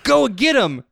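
high, squeaky hammed-up young villain; young Ocelot voice. Describing young Ocelot to friends, hammed-up high villain voice. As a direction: pitch it way up like a cocky kid. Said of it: "he talks like this".

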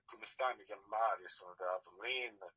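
Italian introduction in Neapolitan dialect. Retold or imitated. Actor redoing his introduction for the director in Neapolitan dialect. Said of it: "Napolitan dialect".

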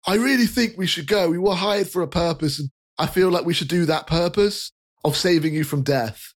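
high, apologetic chubby fellow; jolly rotund man. Acted. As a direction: soothe the startled kid cheerfully. NPC urges them on.

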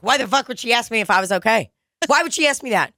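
hammed-up fuming to himself; old man muttering angrily in his car; stewing. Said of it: "he was in the car like".

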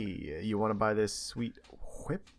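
lightly voiced sleazy salesman; a hint of a slick car salesman pitch. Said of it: "What's your salesman voice?".

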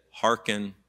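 gentle, understated loving call; lovingly. Acted. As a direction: say it lovingly, without raising the voice. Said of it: "very lovingly".

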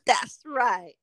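whispered. Real, not acted. Giggly agreement over drinks.

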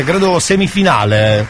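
ordinary delivery

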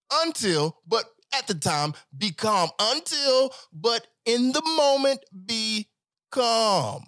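preaching to his brothers to stay calm; impassioned call. Real, not acted. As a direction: urge them hard to keep calm. Passionate plea to stay calm.

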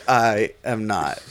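slow robot voice; clipped robot denial. Acted. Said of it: "talking like a robot".

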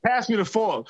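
FORK with the end dropped, New Orleans style; New Orleans slang. Acted. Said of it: "New Orleans slang after a while becomes".

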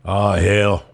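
lightly voiced country boy; casual put-on country drawl; country accent. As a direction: imitate the neighbor's offhand country reckoning. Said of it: "Billy is a real country boy".

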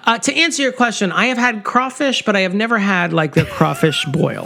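mildly annoyed, emphatic reply; exasperated answer. Real, not acted. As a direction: answer as if fed up with the question. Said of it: "So mad about this question".

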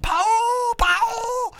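high, loud frantic calls; screaming a name. Retold or imitated. Coworker on the roof screaming the name after the ladder fell. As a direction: yell the name from up on the roof in a panic. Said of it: "screaming my name".

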